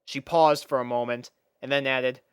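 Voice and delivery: usual speaking voice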